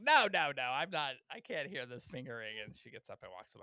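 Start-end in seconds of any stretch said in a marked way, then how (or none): 0.0-2.5 mock upset mother. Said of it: "And Laurie Metcalf is like".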